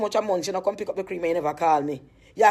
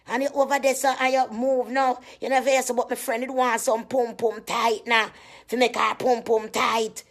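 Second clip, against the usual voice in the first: imitated caller; 3 semitones higher than usual. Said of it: "From me hear she talk like that".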